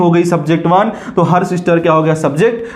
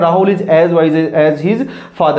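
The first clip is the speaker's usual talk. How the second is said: slow dictation; much slower than usual. Shown as a demonstration. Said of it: "teacher reads sentence again".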